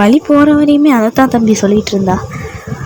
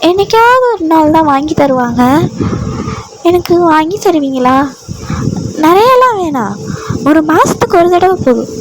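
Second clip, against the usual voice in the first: put-on higher, eager pleading girl; childlike heroine; 4 semitones higher than usual. The heroine asks her new husband for meat, childlike and high. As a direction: ask sweetly like a child.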